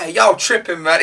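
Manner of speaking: lightly imitated American accent. Fan imitating a show contestant, American accent. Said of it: "just hearing the American accent is like".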